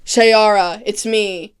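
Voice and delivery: loud, impatient calling to Shayara; mock pushy shout. Birdman on the rooftop calling Kendra, loud and impatient. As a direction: bark at her to wake up, hammed-up. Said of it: "he's like".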